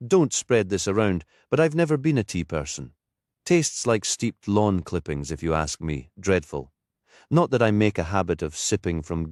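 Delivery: a hint of a Geordie lilt, chatty and tired; vicar's voice. Anna confides, then babbles.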